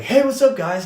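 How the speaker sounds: high, loud imitation of a greeting; mock-cheery greeting. Bob walks up to the friends, mock-cheery. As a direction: burst in on the group like a pest.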